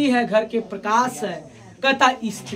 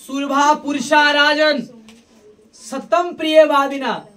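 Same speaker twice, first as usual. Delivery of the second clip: slow, measured recital of a Sanskrit shloka; verse recitation. Acted. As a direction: intone the verse slowly like a preacher. (धीमे स्वर में श्लोक पाठ)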